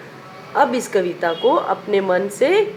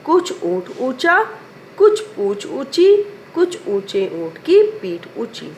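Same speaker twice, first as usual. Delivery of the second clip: slow tongue twister; 3 semitones higher, slower than usual. Shown as a demonstration. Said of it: "फिर से बोलते हैं".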